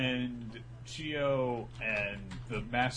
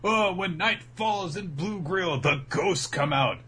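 put-on spooky kid warning; 7 semitones higher than usual. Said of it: "Chaco is like".

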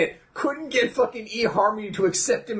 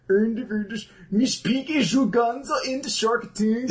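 mock Swedish reading; 4 semitones higher, much slower than usual. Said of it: "a Swedish accent of English words".

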